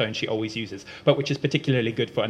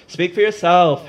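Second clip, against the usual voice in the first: louder, higher heckle; heckling; 6 semitones higher, 9 dB louder than usual. Acted. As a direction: throw it back at him. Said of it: "heckles Umeko".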